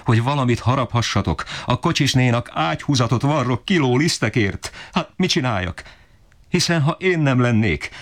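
high, pleading, hurt outcry; worn-out mother answering her husband, high tearful pleading; tearful protest. Acted. Weeping mother answers back.

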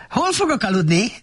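high, chirpy donkey chatter. A narrator's reading. Donkey chatters asking where to sleep. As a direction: chatter it brightly. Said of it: "csacsogta Szamár".

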